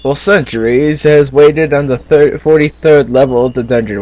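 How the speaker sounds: put-on storybook narration in a British accent. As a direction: read it like a British fantasy narrator. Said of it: "talking in a British accent".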